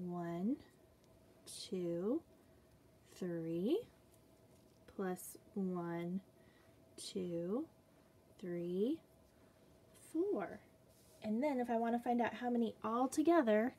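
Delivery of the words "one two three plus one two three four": hushed counting aside; whispered count. Acted. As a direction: drop to a secret whisper for "plus one". Counting duck puppets with children.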